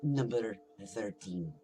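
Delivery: slow, drawn-out dramatic reveal. Acted. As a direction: stretch it out for suspense. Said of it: "we're done with the dramatic".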